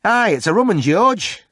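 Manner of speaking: grumbling pub regular; gossiping Yorkshire drinker. A narrator's reading. Yorkshire drinker George's friend voiced.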